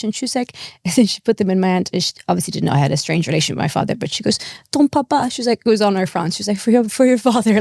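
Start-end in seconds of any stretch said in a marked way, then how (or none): 4.7-5.3 high imitation of a French woman; put-on French accent, raised pitch. French air stewardess handing over chocolates, French accent. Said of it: "She was French". 6.6-7.6 lightly imitated French accent. Stewardess giving chocolates for the father, French accent. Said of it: "She was French".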